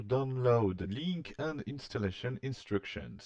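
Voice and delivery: English read slowly with a heavy French accent; clumsy English in a thick French accent. Real, not acted. Tutorial host reading out a link name to viewers, French-accented English. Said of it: "mon accent anglais déplorable".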